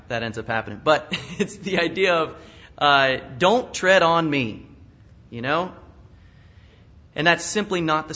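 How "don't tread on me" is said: mock southern drawl. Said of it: "that southern drawl".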